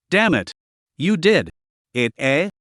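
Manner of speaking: a hint of a thin, hung-up eunuch voice. A narrator's reading. Fighter cursing in his new strange voice, lightly eunuch-like. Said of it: "A eunuch?".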